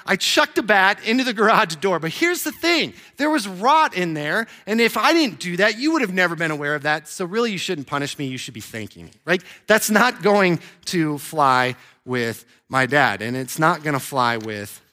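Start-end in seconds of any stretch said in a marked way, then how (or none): 0.0-9.4 put-on higher, sly kid talking his way out; mock kid pleading. Son pitching to his dad why he shouldn't be punished, mock-earnest. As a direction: plead your case to Dad, cheekily. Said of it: "I'm like".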